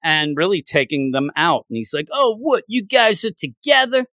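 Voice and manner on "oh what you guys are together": higher-pitched incredulous retort; mock surprise. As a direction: act out a taken-aback villain. Acts out villain's surprise at heroes.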